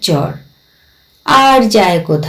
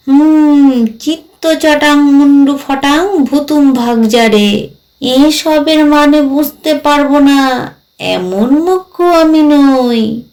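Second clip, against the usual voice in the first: drawn-out ghost voice, a little self-important; lightly voiced ghost, boastful; 3 semitones higher, slower than usual. Ghost boasts of understanding the chant, lightly voiced and proud. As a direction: stretch the last words like a proud ghost.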